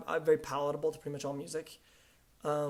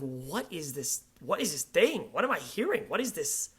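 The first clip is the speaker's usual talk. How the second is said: retold bewilderment. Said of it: "I didn't understand".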